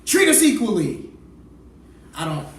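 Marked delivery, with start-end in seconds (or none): 0.0-1.1 loud, high mock incantation; mock spell-casting, projected hard; pretend wizard spell. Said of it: "a spell I would use if I was a black wizard".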